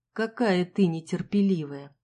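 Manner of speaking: slow, calm, smiling; amused and unhurried, with a smile. Acted. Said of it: "спокойно улыбнулся".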